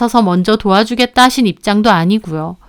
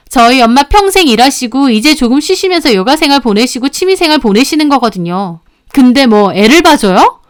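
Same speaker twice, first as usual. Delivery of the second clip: understated indignant rant; angry outpouring. Acted. Daughter-in-law takes sister-in-law to task, indignant outpouring. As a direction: let the grievances pour out, irritated. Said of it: "제가 너무 화가 나서 다다다 쏟아내자".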